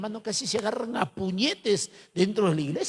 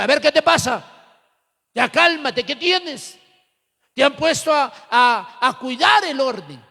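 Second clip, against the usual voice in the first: mock stern scolding; 3 semitones higher, 4 dB louder than usual. Others restrain the angry leader.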